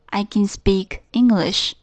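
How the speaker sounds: slow, even affirmative sentence, can said plainly. Shown as a demonstration. Teacher modelling the positive form, slow and careful. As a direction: say it slowly, can unstressed and plain. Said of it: "肯定形式".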